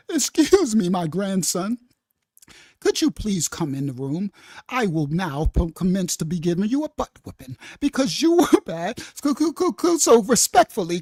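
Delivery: low, prim and overly courteous; lightly voiced genteel grandma, laughing at the end; mock polite grandma. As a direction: play a grandma far too polite to scold. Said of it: "She did not say".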